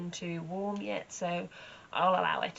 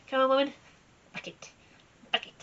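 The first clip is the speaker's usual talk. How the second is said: demanding horse; 6 semitones higher, 5 dB louder, faster than usual. Pretend.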